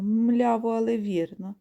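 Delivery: lightly voiced oxen echoing, rising at the end; lowing oxen. Oxen repeat their answer, lightly voiced. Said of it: "задирають голови і мукають".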